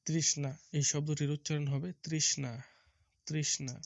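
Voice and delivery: তৃষ্ণা said carefully as trishna, with a clear ষ্ণ; teacher models তৃষ্ণা for the pupils; model pronunciation. Shown as a demonstration. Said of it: "তাহলে উচ্চারণ কি হবে?".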